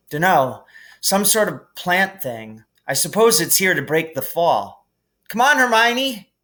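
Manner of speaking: lightly voiced boy calling up; casual then calling up; a hint of a boy calling; Harry voice. A narrator's reading.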